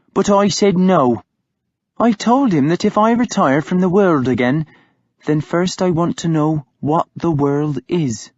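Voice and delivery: lightly voiced nun telling her own choice; Hild, firm woman. A narrator's reading. Hild telling Uhtred she refused the priest, lightly voiced.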